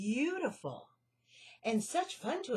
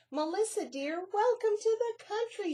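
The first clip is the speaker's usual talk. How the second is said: high, loud delighted mouse greeting; delighted welcome; 11 semitones higher, 5 dB louder than usual. Acted. Annie welcoming her city friend, delighted and high. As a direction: squeal a happy welcome. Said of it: "she said".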